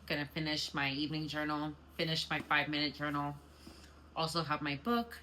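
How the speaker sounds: talking around a retainer; words slightly lisped through retainer; wearing a retainer. Real, not acted.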